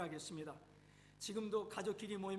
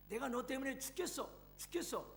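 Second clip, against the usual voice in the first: higher, sharp angry cry; exasperated yell; 5 semitones higher than usual. Acted. Mother blaming her son over the phone, exasperated. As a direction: throw the blame at him in a raised voice. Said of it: "버럭 화를 내면서 한마디 쏘아붙였습니다".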